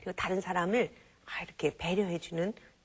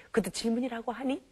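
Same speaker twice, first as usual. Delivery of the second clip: mocking scoff. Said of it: "진지하게 질문하는데".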